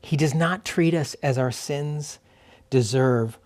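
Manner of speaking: very unhurried reading with long silences between lines; slow scripture reading. Real, not acted. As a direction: read slowly, leaving room to listen. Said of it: "as I read through it slowly again".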